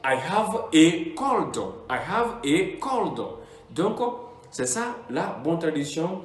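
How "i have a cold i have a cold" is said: slow model phrase. Shown as a demonstration. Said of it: "il faut dire".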